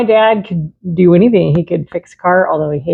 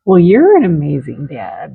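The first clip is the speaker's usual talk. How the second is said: crying; 5 semitones lower than usual. Real, not acted. Wife tearfully praising husband.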